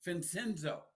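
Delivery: careful Vincenzo, said as vin-SIN-zo; tentative pronunciation attempt. Shown as a demonstration. Host having another go at the surname, tentative pronunciation attempt. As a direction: Vincenzo tried out with an s sound. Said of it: "something is silent somewhere".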